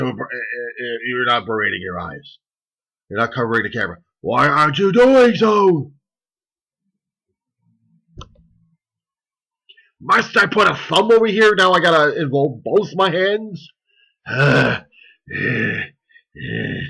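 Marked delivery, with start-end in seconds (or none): 4.2-13.7 indignant squeal. Acted. Mock outrage at viewer.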